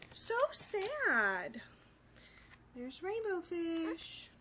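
soft, slow and sad; whisper-soft sympathy; hushed aside. Real, not acted.

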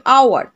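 "আওয়ার" opening on a vowel, "au-ar"; silent H. Shown as a demonstration. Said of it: "অ এর উচ্চারণ হচ্ছে".

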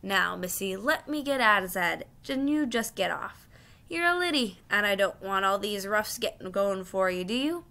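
kindly Cockney cabby coaxing; not unkindly. Acted. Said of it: "in a not unkindly voice".

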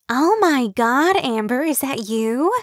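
high, slow, gushing surprise; excitable gushing. Acted. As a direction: stretch it out like spotting an old friend. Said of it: "always sounded breathless".

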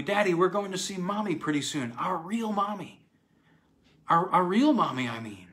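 put-on high, eager little-girl voice; happy cry. A narrator's reading. Dorothy tells her father about seeing Mommy, crying happily. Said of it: "Dorothy crying happily".

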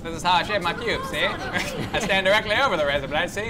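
lightly voiced gangster detective; a hint of a hardboiled gumshoe; noir detective voice. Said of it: "so now I've got the voice".

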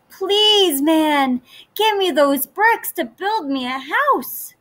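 high, sweet piglet voice; little pig voice. Acted. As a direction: ask politely like a small pig. Third pig asks.

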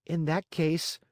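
high, proud little voice; high-pitched childlike resolve; proud puppet. A narrator's reading. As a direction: declare it proudly as a small puppet. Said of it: "said Pinocchio proudly".

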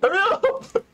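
high urgent yell. Real, not acted. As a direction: rush them along. Urging teammate under fire.

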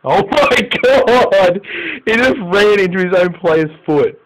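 high, loud wail of disbelief; stretched exasperated exclamation; exasperated outburst. Real, not acted. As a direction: cry out at a stupid blunder. Reacts to player's own blunder.

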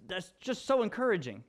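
mock appreciation; sarcastic. Real, not acted. Preacher on the friends' blaming words, sarcastic. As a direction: say it with light sarcasm. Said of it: "I mean that sarcastically".

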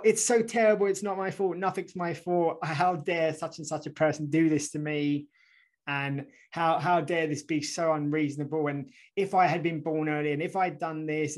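mock self-pity. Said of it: "we tend to go from one extreme".

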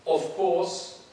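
OF COURSE leaned on, set apart by a pause; stressed words. Shown as a demonstration. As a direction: put weight on "Of course". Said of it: "I will stress, uh, certain words".

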